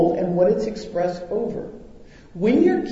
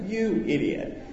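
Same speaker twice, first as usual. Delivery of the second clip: laughing repeat; 2 semitones higher, 5 dB quieter than usual. Retold or imitated. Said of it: "Those are my exact words".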